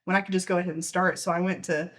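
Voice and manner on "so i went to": out of breath. Real, not acted. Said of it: "I'm a little out of breath".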